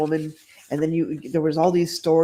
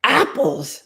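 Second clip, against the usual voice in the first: snorting; 5 semitones higher, 3 dB louder than usual. Acted. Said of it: "snorted the man".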